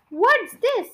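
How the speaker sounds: high, loud startled question; voiced as a startled gasp; mock gasp. A narrator's reading. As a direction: read it as a shocked question. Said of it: "gasped Mister Twit".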